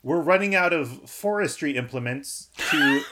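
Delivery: high, slow, hammed-up alarm; test sentence read out dramatically. Shown as a demonstration. Host reading out the test sentence, in a dramatic voice. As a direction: read it like an over-the-top emergency line. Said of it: "Here's the test sentence".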